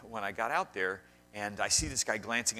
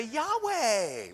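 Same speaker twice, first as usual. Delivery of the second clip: pun; 12 semitones higher, 6 dB louder than usual. Pretend. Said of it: "I wanted to say".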